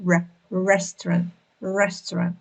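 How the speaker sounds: bare "r", then "restaurant" with a careful first "r"; R sound demonstration. Shown as a demonstration. Teacher mimics native speakers' r, careful model pronunciation. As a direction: isolate "r", then say "restaurant" clearly. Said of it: "how the native speakers pronounce this sound r".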